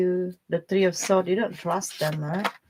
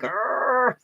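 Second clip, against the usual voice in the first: grumbling groan; 4 semitones higher than usual. Retold or imitated. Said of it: "they have a slow voice".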